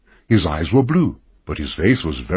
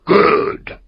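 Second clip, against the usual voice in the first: a touch of glee; pleased, bright agreement; happily; 9 semitones higher than usual. A narrator's reading. Castaway hears he may go home, mildly happy. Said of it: "Ben Gunn said happily".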